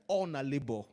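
Nigerian Pidgin-flavoured delivery; Nigerian accent. Shown as a demonstration. Preacher restating the Bible verse for the congregation, Nigerian accent. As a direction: say it the Nigerian way, "All na labor". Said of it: "in Nigerian accent?".

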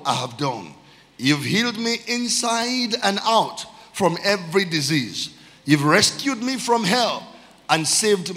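slow, stretched, ringing reading; psalm declamation. Real, not acted. Preacher reading intentional praise psalm to church, slow fervent declamation. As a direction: proclaim it as heartfelt praise to God.

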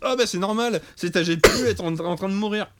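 pessimistic forum poster. Retold or imitated. The speaker voicing forum posters on his GPU, mock pessimistic verdict. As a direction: imitate a forum know-it-all announcing the worst. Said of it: "t'as les messages pessimistes".

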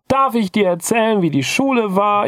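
put-on high, bubbly child chatter; energetic kid voice. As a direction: play the excited kid reporting on school. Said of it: "er so energetisch".

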